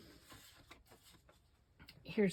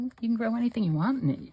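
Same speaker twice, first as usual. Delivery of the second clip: retold advice; 6 semitones higher, much faster than usual. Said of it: "I said".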